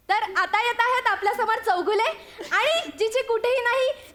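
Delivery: host announcer voice. Retold or imitated. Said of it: "मी आता प्राजक्ता".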